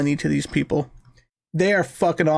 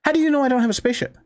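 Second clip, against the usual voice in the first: mock indignation; 6 semitones higher, much faster than usual. Mock-indignant retort to operator.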